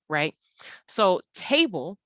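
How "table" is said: "table" with its first vowel drawn out; stretched first syllable. Shown as a demonstration. Teacher pointing out the stressed syllable, "table" with first syllable stretched. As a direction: lengthen the "ta" of "table". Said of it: "since that stretches out".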